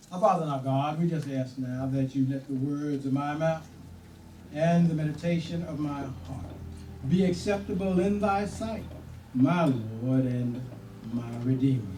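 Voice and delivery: sermon prayer, slightly lifted. Acted. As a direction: pray it out to the church. Opening prayer.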